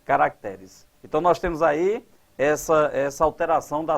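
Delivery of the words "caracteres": "Caracteres" lower, stressed on TE. Shown as a demonstration. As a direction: put the weight on TE in "Caracteres". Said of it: "vai pra quê?". ("Caracteres" mais grave, com a tônica no TE)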